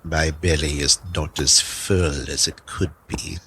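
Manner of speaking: lightly voiced wolf; a hint of a wolf's voice; talking wolf. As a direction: answer as a wolf, in an altered voice. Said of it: "say to the wolf".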